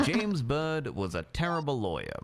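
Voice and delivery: reading his own crime story aloud; story narration. Acted. Reading his crime book aloud to the court, in a story voice. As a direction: narrate it like an audiobook. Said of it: "you should narrate books".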